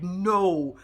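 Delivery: low, curt mock no; a dry, unimpressed no; flat refusal. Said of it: "I was in here like".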